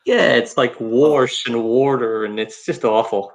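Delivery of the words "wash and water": mild Baltimore accent on warsh and warder; a light Baltimore drawl, warsh for wash. Shown as a demonstration. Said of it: "what's the Baltimore accent like?".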